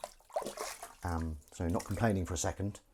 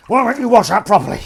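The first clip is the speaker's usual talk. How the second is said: high, loud scolding yell; playful high-pitched scolding shout at the dishes; mock shouting; 12 semitones higher, 16 dB louder than usual. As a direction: yell at the washing up like a cross parent. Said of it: "I shouldn't be shouting at the washing up".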